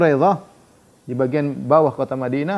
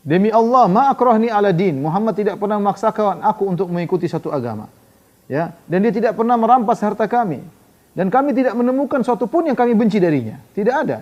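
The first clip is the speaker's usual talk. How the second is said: fervent defence; 6 semitones higher than usual. Retold or imitated. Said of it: "Ka'ab defending Muhammad".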